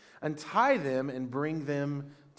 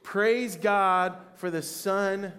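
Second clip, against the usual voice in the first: raised, slow, drawn-out acclamation; shouted praise; 3 semitones higher, 4 dB louder, much slower than usual. Acted. Pastor leads church in the crowd's shout, raised voice. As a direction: call out praise slowly, higher than usual.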